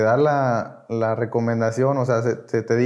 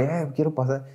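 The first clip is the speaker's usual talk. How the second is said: quiet mock plea to be let up; retold desperate plea; 5 dB quieter than usual. Begging for his turn at the tribuna, understated desperation. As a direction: lightly act out urgency, softly. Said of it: "y bien desesperado".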